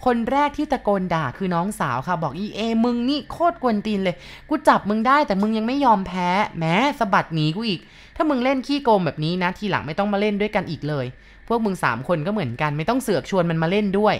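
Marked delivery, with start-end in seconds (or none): 2.4-14.1 half-hearted furious telling-off of the sister; angry cursing. Acted. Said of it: "สะบดคำหยาบออกมาด้วยโทสะ". (ด่าด้วยความโกรธแบบพอประมาณ)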